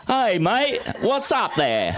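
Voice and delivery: Cockney Artful Dodger shouting on stage. Retold or imitated. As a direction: bellow it like a cheeky Cockney. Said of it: "I went".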